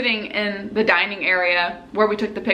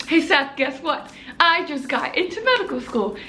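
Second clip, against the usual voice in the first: excited reveal; 4 semitones higher than usual. Retold or imitated. Retold news to little brother.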